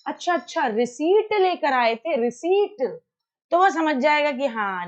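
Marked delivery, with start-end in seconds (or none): 0.1-3.0 slow, gentle and kind; respectful correction. Shown as a demonstration. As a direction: ease him toward the right word slowly. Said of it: "सम्मानजनक तरीका क्या है".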